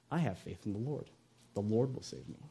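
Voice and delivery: hushed, low, unruffled voice; serene faith. Acted. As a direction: assure them very softly. Stranded man's serene faith in joke.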